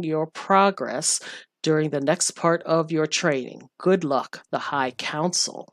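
slow, measured reading of an official letter; formal letter reading. Acted. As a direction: read it out like a grand decree. Reads the council letter aloud.

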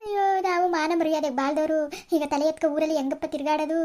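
hammed-up wailing lament; a put-on sob story about lost family honour; fake lament. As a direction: play-act a wronged mother's weepy complaint. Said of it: "ನಾಟಕ ಆಡ್ತೀನಿ".

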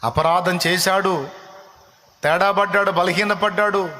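high, ringing pulpit voice, the pitch climbing; fervent preaching. Acted. Preacher to the congregation about David's fall, in fervent preaching. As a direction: preach it with rising fervour.

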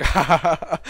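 hammed-up reading of a laughing chat message; mock laughter. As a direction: belt out the all-caps ha ha. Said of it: "he just started laughing on chat".

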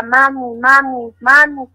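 retold call from afar, rising; distant calling. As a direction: call her name, building up. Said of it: "escuché que alguien me decía".

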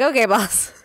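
put-on eager pegasus voice; cheerful sidekick voice. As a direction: chirp it back like a loyal sidekick. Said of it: "He's like".

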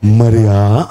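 Jesus calling Mary tenderly; tender call by name. Acted. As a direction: call her name lovingly. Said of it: "పేరు పెట్టి పిలిచాడండి".

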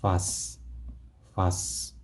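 Вас with a clear English V, vas; V sound in вас. Shown as a demonstration. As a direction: bite the lip for the V in Вас. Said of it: "영어로 V 발음을 하면서 вас".

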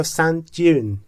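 دیون said with a j sound, "sand jyoon"; British style, turn the d of دیون into j; British pronunciation. Shown as a demonstration. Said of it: "در انگلیسی بریتیش صدای جی". (تلفظ بریتیش دیون با صدای جی)

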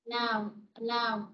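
slow, careful model reading of "allow"; slow teacher demo; slow model word. Shown as a demonstration. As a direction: spell out "allow" slowly for the class.

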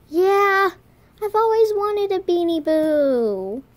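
high, loud, gushing delight; hammed-up thrilled wail; pretend overjoyed. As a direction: gush over the make-believe present. Overjoyed at a surprise gift.

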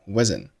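wasn't with the final t left unexploded; unreleased t. Shown as a demonstration. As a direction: say wasn't as "wuzzn", swallowing the t. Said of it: "t可以不用爆出来".

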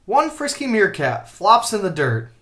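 measured read-aloud; picture-book reading. A narrator's reading. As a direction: read it to children, posing the question.

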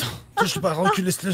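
high, loud panicked orders; panicked shout. Acted. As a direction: yell them back in panic. Panicked orders at shooting scene.

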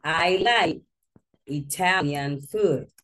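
I like Italian food, a bit slow, food stressed; teacher giving the fix; corrected model sentence. Shown as a demonstration. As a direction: model the right sentence clearly. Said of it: "you need to change the sentence".

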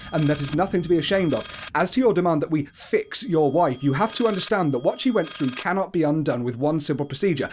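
lightly performed doctor's letter; mildly official read-aloud delivery; formal letter reading. Acted.

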